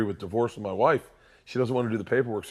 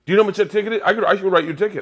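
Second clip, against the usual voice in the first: much higher, louder mock cop scolding; angry cop; 9 semitones higher, 7 dB louder, much faster than usual. Cop threatening a ticket, hammed-up angry. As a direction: bark it like an indignant cop. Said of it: "The cop came up very angry".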